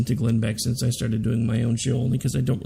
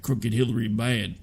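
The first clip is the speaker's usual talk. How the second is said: lightly voiced Trump in a redneck twang; a hint of Trump, low and dumb; Trump impression; 4 semitones lower than usual. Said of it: "when I'm trying to do Trump".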